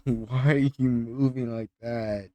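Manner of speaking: laugh, then ask at normal pitch; amused disbelief. Real, not acted. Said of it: "I know I'm laughing at it".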